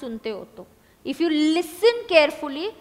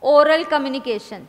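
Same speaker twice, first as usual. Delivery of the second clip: drawn out, louder on the start; slow dictation; 6 dB louder, much slower than usual. Shown as a demonstration. Teacher giving the class a heading, slow dictation. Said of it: "आपने करना चाहिए".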